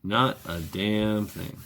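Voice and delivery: "Not a damn thing" said slowly, leaning on "not"; slow heavy "Not a damn thing"; slow emphatic repeat. Shown as a demonstration. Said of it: "repeated for emphasis".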